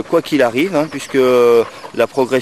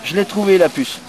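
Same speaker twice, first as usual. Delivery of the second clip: voicing the dog; 6 semitones higher than usual. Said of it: "il dit à son maître".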